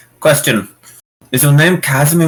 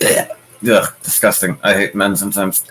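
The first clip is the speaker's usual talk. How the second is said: lower, grossed-out grumble; disgusted; 4 semitones lower, 3 dB quieter than usual. Acted. Yuna reacts to the villain's blown kiss, disgusted. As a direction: recoil with a gag, then grumble. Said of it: "gagging noise".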